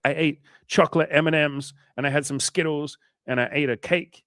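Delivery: high put-on confessing client voice; sheepish client. Client confessing binge to coach, in a high put-on guilty voice. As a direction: list the junk food like a guilty kid. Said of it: "they'll be like".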